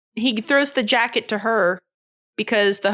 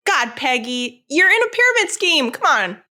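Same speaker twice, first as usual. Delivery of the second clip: exasperated mock scolding; 4 semitones higher, 3 dB louder than usual. Viewer tells Peggy it's a pyramid scheme, exasperated. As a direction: plead in exaggerated disbelief.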